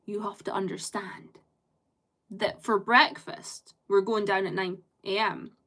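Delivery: imitating solemn importance over a trivial plan; mock-intense, measured announcement; grave importance. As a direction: make breakfast sound momentous. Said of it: "they say it with such importance".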